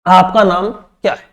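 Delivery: slow आपका नाम क्या है with a rising end; slow question demo; question tune. Shown as a demonstration. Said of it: "मैंने प्रश्न किया".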